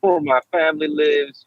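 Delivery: a hint of a movie villain's threat; mock menacing threat. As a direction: play a sinister caller warning him he knows where the family lives.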